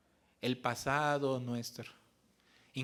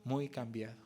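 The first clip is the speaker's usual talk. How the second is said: amazed mother. Retold or imitated. Mother amazed at her changed son, raised and bright. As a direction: marvel at the change. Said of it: "me dijo".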